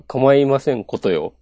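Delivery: put-on haughty rich girl japanese. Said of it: "お嬢様っぽく言うなら".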